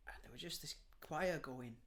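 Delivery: hushed whisper. Real, not acted. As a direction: whisper it as if not to disturb the choir. Hushed memory of the choir.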